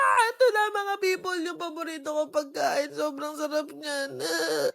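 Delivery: high, soft reverent reveal; hushed reveal. Acted. Vlogger revealing favourite dish, soft hushed awe. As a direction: breathe it out like a treasure.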